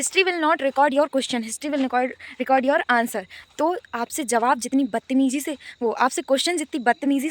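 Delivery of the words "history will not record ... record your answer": slow, weighty speech delivery; quoting a speech. Retold or imitated. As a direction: deliver it like a grand quote. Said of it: "उनने एक बात बोली थी".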